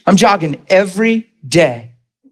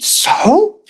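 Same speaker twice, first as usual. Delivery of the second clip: flat wife so. Retold or imitated. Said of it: "She said".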